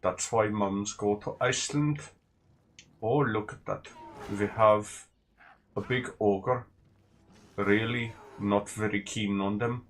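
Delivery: put-on Icelandic accent, drifting and uncertain; muddled Nordic accent. Shown as a demonstration. Gamer shows off Nordic voices, in a muddled Icelandic accent. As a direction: do a joking Scandinavian voice. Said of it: "likes to do the Scandinavian and Nordic voices".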